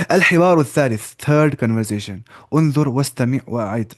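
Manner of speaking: slow, careful reading for students to repeat; slow model reading. Shown as a demonstration. Teacher reads the title slowly for students to repeat. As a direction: read it out slowly so they can echo it. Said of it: "आप गौर से सुनिए और आप repeat करिए".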